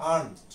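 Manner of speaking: aren't said as ant with no r sound; teacher modeling aren't; aren't without the r. Shown as a demonstration. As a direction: drop the r in aren't, just ant. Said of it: "এই আরটা উচ্চারণ হবে না".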